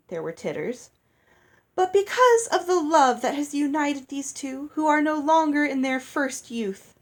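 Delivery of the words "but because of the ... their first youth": high, loud theatrical proclamation; a fairy performing her delight; grand gushing speech. A narrator's reading. Lucinda declaiming to the wedding hall, high and theatrical.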